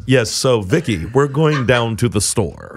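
slow, over-enunciated mock white talk; proper white-person voice. Imagined white friends talking to Vicky, slow and mock-proper. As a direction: drag it out, carefully proper. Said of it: "a bunch of white people around you".

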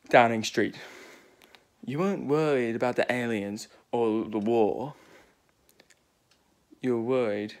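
lightly put-on British accent, Doctor Who scene; playful Doctor Who reenactment in a British accent. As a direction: act out the Doctor and his companions in a British voice. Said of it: "Why am I having a British accent".

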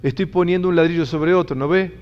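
mild mock annoyance; annoyed bricklayer. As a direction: show the class how he snapped. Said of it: "Molesto, ¿me entienden?".

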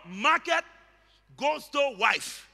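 "Market" lifted high, then a pause; high, set-apart "Market" at the front; stress on Market. Shown as a demonstration. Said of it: "The emphasis is on market".

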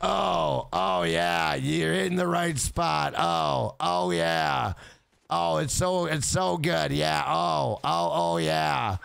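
half-hearted, badly faked moaning; unenthused sex operator. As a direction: drone mock pleasure with no enthusiasm. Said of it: "and she's like".

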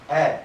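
え as a long "ee"; Yamaguchi-style long え; fused dialect vowel. Shown as a demonstration. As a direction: hold え as one merged vowel. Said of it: "っていう発音".

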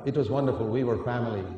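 normal talking voice

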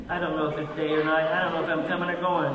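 frazzled aside. Real, not acted. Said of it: "it's been one of those weeks".

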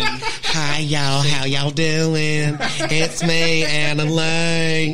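lightly put-on Southern drawl, slow; a light country twang; hint of a Southern redneck greeting; redneck accent. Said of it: "now you got a redneck voice going on there".

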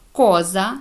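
«коза» opening on a hard k; «коза» as a careful reading example, co read as ko. Shown as a demonstration. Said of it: "читається як".

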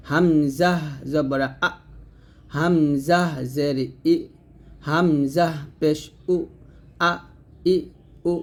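slow spelling chant, "আ", "ই", "উ" cut firmly from the throat; drawn-out "হামজা", then a hard glottal start on each vowel; firm throat hamza. Shown as a demonstration. Teacher showing learners how to sound hamza, firm from the throat. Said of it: "হলকে শুরু থেকে শক্ত করে".

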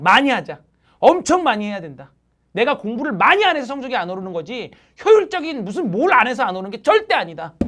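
loud, fired-up rallying; rousing exhortation. Real, not acted. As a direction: pump up the class like a coach. Teacher's loud closing exhortation.

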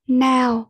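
"now" with a clear AO diphthong; teacher's demonstration of "now", rhyming with cow; AO sound in now. Shown as a demonstration. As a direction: model "now" carefully, vowel as AO. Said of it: "Và D là âm ao".

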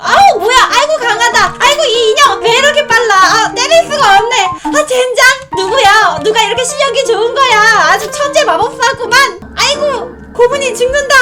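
high, loud mock flustered cries; hammed-up panic. Losing to her kids' cursed doll, mock panic. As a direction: overplay being beaten by the doll.

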